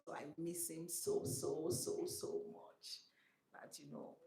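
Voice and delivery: real grief, breath breaking through the words; choked-up real emotion, barely voiced. Real, not acted. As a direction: voice cracks and falls away while missing him. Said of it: "I'm so emotional right now".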